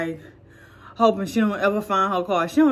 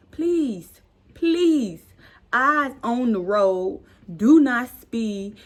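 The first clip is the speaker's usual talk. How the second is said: earnest advice; 3 semitones higher, 4 dB louder, much slower than usual. Real, not acted. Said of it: "y'all kids out there".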